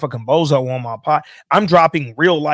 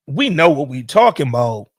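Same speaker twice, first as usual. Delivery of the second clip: raised, incredulous retelling of own reaction; shocked disbelief; 3 semitones higher, 4 dB louder than usual. Retold or imitated. Retelling reaction to being asked to lead one, shocked disbelief. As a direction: retell being taken aback, voice climbing. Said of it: "Shocked. Shocked. I'm like".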